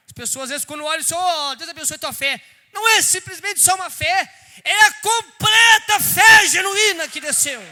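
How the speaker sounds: preaching at full force. Acted. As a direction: shout it out over the congregation. Preacher shouts about genuine faith.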